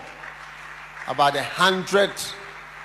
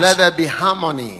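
fervent prayer; 10 dB louder than usual. Real, not acted.

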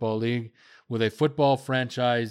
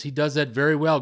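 normal talking voice

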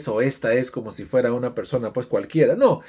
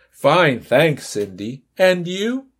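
dialogue character; much slower than usual. Acted. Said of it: "voy a hacer esa conversación".

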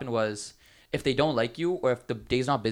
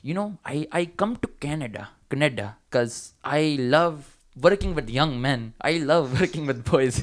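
imitating the Sri Lankan owner's South Asian accent, slow and louder; mock brown accent; 3 semitones higher, 5 dB louder, slower than usual. Owner boasting about hiring young men, in a mock South Asian accent. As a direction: ham up a South Asian boss's accent, drawn out. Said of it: "I'm just gonna do a brown accent".

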